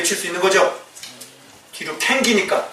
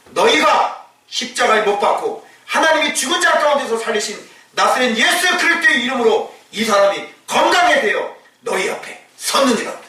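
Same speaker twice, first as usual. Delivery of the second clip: bold accusation; 5 semitones higher than usual. Retold or imitated. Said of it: "이렇게".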